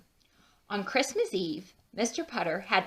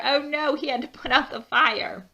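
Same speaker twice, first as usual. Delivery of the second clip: mock alarm; 5 semitones higher, 5 dB louder than usual. Reacting to cake fire.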